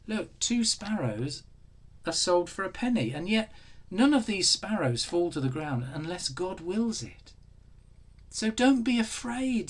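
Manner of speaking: lightly voiced Jesus comforting.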